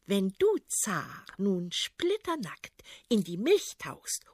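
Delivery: lightly voiced princess, coaxing and sly; scheming princess. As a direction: lure him into the trap sweetly. Princess lays out plan.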